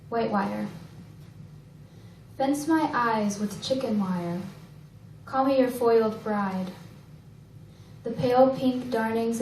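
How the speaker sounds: measured poem recital with pauses between lines; poetry reading. Acted. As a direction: recite each line deliberately, letting it settle. Reads own poem aloud.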